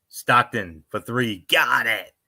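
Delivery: slow build into the basket call; imitated play-by-play call. Fan recreating a famous Stockton call, imitated play-by-play. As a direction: re-enact a game-winning shot call, drawn out. Re-enacting announcer's game-winning call.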